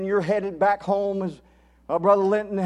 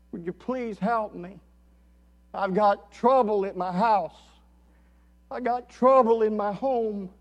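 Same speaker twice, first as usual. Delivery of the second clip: pleading; 2 semitones higher than usual. Retold or imitated. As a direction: plead for help in separate, weighted phrases. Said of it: "He's pleading".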